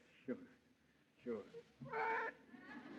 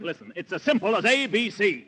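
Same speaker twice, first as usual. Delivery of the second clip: higher and louder, hurried; flustered; 9 semitones higher, 5 dB louder than usual. Acted. Nick flustered, explaining to the clerk, higher and louder. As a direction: blurt it out in a fluster.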